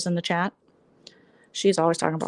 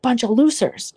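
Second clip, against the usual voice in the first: mocking quote; 4 semitones higher, 4 dB louder than usual. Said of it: "And he's like".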